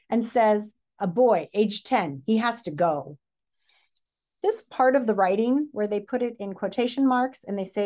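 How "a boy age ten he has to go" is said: measured reading of a quote; story read-aloud. A narrator's reading. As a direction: read the official's words steadily.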